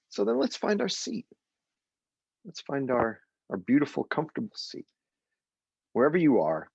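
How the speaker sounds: gentle meditation guide voice; soothing meditation opening; guided meditation. Acted. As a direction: settle them into their seats.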